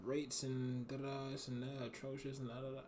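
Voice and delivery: soft mock rattling-off of fancy words; mimicking big words. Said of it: "see how he talking".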